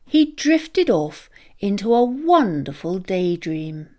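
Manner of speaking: usual speaking voice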